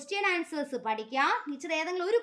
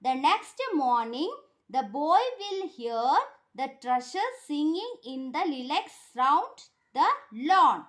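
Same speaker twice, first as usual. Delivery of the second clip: very slow, word by word for pupils; teacher dictating to a class; slow dictation; 3 dB louder, much slower than usual. Shown as a demonstration. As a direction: spell the answer out slowly so they can write. Teacher reads answer slowly.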